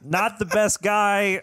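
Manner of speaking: slow, laughing aside; correcting a joke that misfired, laughing. Real, not acted. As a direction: chuckle it out. Laughing while correcting himself.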